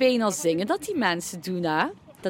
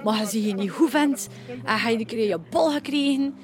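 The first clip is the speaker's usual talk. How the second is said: West Flemish accent. Shown as a demonstration. Showing how West Flanders people talk, broad West Flemish accent. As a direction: sound like a coastal Flemish local. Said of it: "ah, West-Vlaams".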